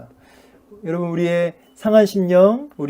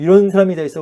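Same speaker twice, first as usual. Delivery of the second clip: 살짝 화난 척 높여 말하기; 가볍게 흉내 낸 성난 불평, 조금 크게; 3 semitones higher, 6 dB louder, faster than usual. Acted. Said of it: "막 분노하고". (약간 화난 척)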